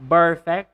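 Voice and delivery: BERfect, voiced b at the start. Shown as a demonstration. Teacher shows the B/P mistake, b for p. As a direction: perfect said as burr-fect. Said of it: "So do not say perfect".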